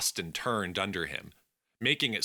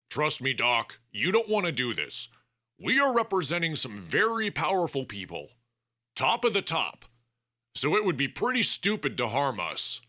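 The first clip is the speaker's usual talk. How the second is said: weak threat; 7 semitones higher than usual. Acted. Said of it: "Bennett threatened without the energy to do so well".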